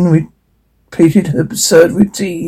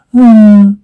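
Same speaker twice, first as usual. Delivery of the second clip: higher, louder hummed sigh; voiced sigh; 5 semitones higher, 5 dB louder than usual. Narrator acts Red Hood, voiced sigh. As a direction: sigh out loud on a hum. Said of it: "Red Hood, Hood sighs".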